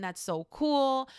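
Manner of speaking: drawn-out impressed praise; congratulations. Acted. Friend congratulating the other person, impressed. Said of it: "also show congratulations".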